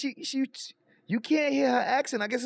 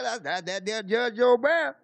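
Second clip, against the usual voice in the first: imitating Judge Joe Brown's accent.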